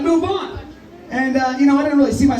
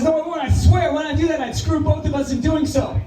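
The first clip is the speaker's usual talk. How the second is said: scorpion voice; 5 semitones higher than usual. Acted. Scorpion pleading in fable.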